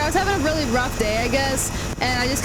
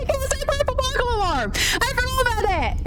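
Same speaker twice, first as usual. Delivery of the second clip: high, giggly Scottish; laughing Scottish accent; 11 semitones higher than usual. Shown as a demonstration. Streamer amused by a tongue-twister, laughing Scottish accent. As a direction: squeal it through laughter, in Scottish.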